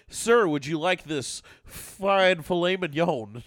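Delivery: slow, posh-waiter courtesy, mock formal; snooty waiter. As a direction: play a fancy waiter offering the steak. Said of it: "they're gonna be like".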